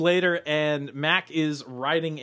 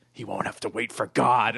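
lightly voiced Mac; 5 semitones lower than usual. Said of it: "Mac is like".

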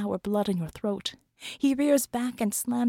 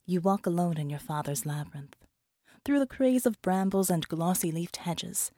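story narration. A narrator's reading. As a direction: read it like an audiobook.

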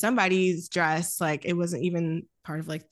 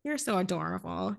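sweet cooing. Retold or imitated. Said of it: "in a sweet sort of".

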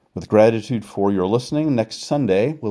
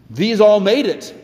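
"all" raised high and loud, then falling; stress on all; 14 semitones higher, 6 dB louder than usual. Acted. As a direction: lean hard on "all" as a proclamation. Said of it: "the writer says in chapter twelve".

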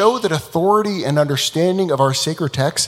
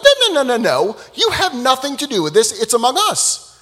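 much higher and louder "no, no, no"; urgent protest; 9 semitones higher, 3 dB louder than usual. Acted. Rabbi Yehoshua ordering the walls to stop, urgent. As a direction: stop them right now.

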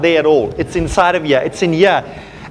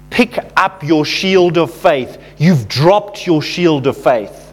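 stern prophetic word; 5 semitones lower, slower than usual. Retold or imitated. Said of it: "He turned to somebody and said".

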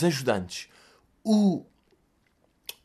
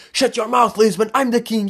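loud, higher arrogant taunt; wrestling heel taunt; 7 semitones higher, 5 dB louder than usual. Retold or imitated. Wrestler's helper taunting the Lisbon crowd, loud mock trash talk. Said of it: "viravam-se para o público e diziam".

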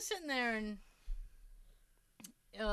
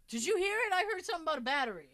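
raised, higher, urgent call; retold yelling; 6 semitones higher, 4 dB louder, much faster than usual. Telling co-hosts how Jay yelled about the voice, raised urgent imitation. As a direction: imitate someone calling excitedly from another room. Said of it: "Jay's yelling at me".

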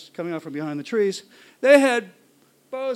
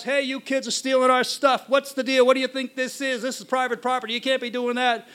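put-on higher-pitched scolding of kids; retold angry yelling; 4 semitones higher than usual. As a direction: imitate men telling off trespassers. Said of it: "they start yelling at us".

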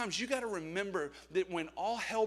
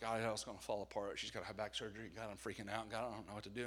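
mock fretful prayer; 8 semitones lower, 8 dB quieter, faster than usual. Acting his worried prayers to God.

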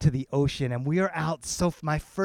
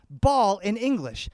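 slow, measured word-by-word comparison; counting syllables; 2 semitones higher, slower than usual. Shown as a demonstration. Father comparing English and Spanish syllables, slow and deliberate. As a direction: draw out each word to show its length. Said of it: "I would count up the syllables".

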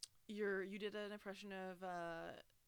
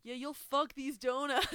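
hammed-up shout; 7 semitones higher, 10 dB louder, slower than usual. Mock donut shop boast.

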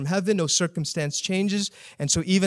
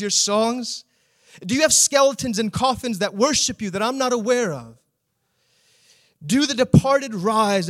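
higher, biting mock questions about the grave; mock God's silence with rhetorical jabs; preacher paraphrasing the psalmist's sarcasm to God; sarcastic paraphrase; 4 semitones higher than usual. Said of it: "He's almost speaking sarcastically".

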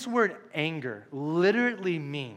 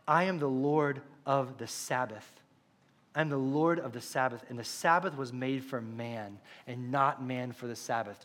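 solemn Jesus quote; 4 semitones lower, 4 dB quieter than usual. Acted. Quoting Jesus' claim solemnly.

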